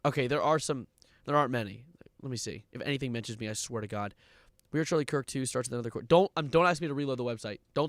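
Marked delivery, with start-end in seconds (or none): 2.2-4.2 much softer, lower mutter under the breath. Real, not acted. Streamer checking mentions of himself, quiet muttering. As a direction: grumble it to yourself.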